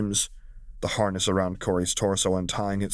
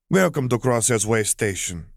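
radiant greeting; 3 semitones higher, 4 dB louder than usual. Acted. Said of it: "she greeted with a radiant smile".

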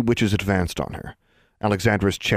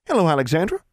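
cool greeting; 10 semitones higher, faster than usual. Acted. Angelique greeting coolly.

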